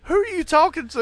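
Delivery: retold baffled question. Friends retell a prank show, mock incredulous.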